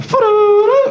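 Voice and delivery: high tootling flute sound, mock a singer playing; flute imitation. A singer playing the snake-charm flute, mock tootling. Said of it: "She like".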